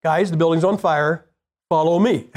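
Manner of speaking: level, composed alert in a pretend fire; calm fire warning. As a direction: lead them out calmly, without any scream. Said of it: "calm is probably a better way".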